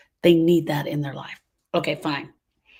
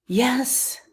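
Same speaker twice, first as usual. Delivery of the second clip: breathy whispered yes; 6 semitones higher than usual. Real, not acted. Speaker answering the grieving audience, in a tender whisper. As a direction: let the yes fall to a whisper. Answering her own question softly.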